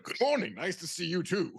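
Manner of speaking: loud, high, peppy reply; shouting. Acted. Hungover man answers a peppy greeting, shouting. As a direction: shout the greeting back, pitch climbing high. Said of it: "they are shouting really loud".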